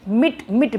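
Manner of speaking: मिट isolated and repeated firmly; stressed syllable alone. Shown as a demonstration. Teacher isolating the strong syllable of admit, stressed मिट. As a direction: tap out मिट by itself, twice. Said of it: "मिट पे हम ज़्यादा".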